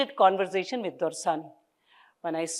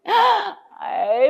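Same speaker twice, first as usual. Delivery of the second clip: joyful cry; 13 semitones higher than usual. Acted. Mother overjoyed at the news.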